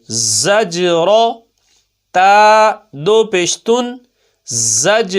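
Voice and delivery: letters spelled then joined, words stretched slowly; slow primer spelling chant; spelling and joining drill. Shown as a demonstration. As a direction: build each word letter by letter. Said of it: "ملا کر پڑھتے جائیں گے".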